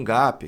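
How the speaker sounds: GAP said as "GAH-pee"; Portuguese-style gap. Shown as a demonstration. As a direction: Brazilianize "gap" with an added i. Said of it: "não tá errado falar gap".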